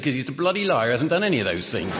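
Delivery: a lightly voiced gruff shopkeeper; blunt shopkeeper. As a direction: dismiss the dog bluntly. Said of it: "He said".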